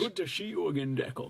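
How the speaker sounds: lightly put-on Scottish accent. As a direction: imitate a Scottish man's greeting. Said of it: "in that Scottish accent".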